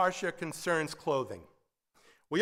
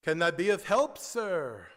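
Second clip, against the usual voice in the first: put-on a light European accent on the shopkeeper's greeting; hint of a European tailor; lightly accented European shopkeeper; thick European accent; 3 dB louder than usual. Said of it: "says in a thick European accent".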